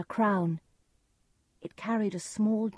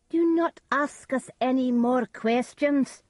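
higher, loud sharp warning; witches warning; 7 semitones higher, 6 dB louder than usual. A narrator's reading. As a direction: snap back like witches. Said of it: "the witches said".

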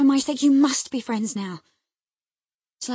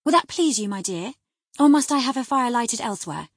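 droll, raised-voice teasing; half-angry, half-amused; 5 semitones higher, 8 dB louder than usual. A narrator's reading. Wife mocks husband's fastidiousness, half angry, half amused. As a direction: needle him with mock deference, pitched up and louder. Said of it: "half angry, half laughing at his fastidiousness".

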